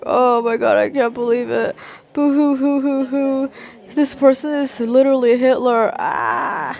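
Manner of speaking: whiny pretend boo-hoo, dripping with self-pity; mock crybaby whine; mock wailing. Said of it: "be like".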